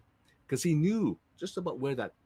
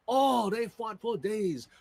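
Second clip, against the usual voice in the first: slow dramatic narration; 8 semitones higher, 3 dB louder, slower than usual. A narrator's reading. Dramatic storytelling.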